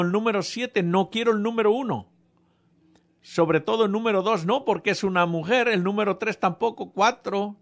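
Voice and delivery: indignant protest. Pretend. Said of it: "No, no, hubiera dicho".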